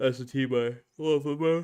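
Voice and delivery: speaking through a yawn. Telling everybody which team they love most, yawning while talking. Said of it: "Sorry for yawning".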